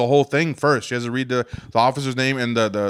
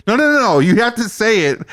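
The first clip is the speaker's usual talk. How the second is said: higher-pitched, cutting-in correction; mock officious insistence; retold insistent judge; 5 semitones higher than usual. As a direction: cut him off like a stern judge. Judge cuts him off, insisting.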